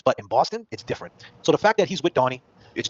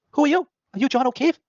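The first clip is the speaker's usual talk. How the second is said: imitated doorstep challenge; 12 semitones higher, 3 dB louder than usual. Voices Chris confronting John at door.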